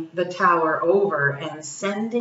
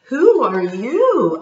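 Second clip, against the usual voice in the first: startled question; 5 semitones higher, 7 dB louder, slower than usual. Acted. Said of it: "asked On".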